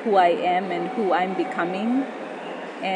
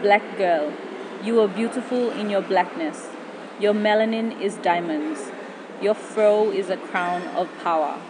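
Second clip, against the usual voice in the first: poem recitation. Acted. Spoken word poem over music.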